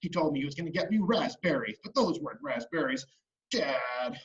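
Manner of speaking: put-on mild grumpy kid sulk; understated acted annoyance; kind of angry. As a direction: grumble in low-key protest. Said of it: "He was kind of angry".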